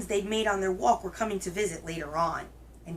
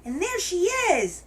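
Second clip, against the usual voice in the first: very high, louder little cub exclamation; Baby Bear; 11 semitones higher, 5 dB louder than usual. A narrator's reading. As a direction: pipe up loudly in a tiny bear voice. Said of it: "in his wee little voice".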